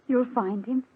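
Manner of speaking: eager. Acted. Rose offers to find her sister a man, eagerly. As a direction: rush to her with loud, eager help.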